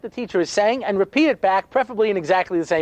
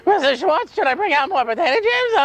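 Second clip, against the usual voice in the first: a lightly voiced eager boy, higher; eager kid; 9 semitones higher than usual. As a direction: play the keen helpful kid asking. Eager kid offering to help.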